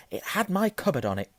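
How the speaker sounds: high, indignant insistence; angry. A narrator's reading. Boy proves letter was his, angrily. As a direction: throw the proof back at him. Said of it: "said Harry angrily".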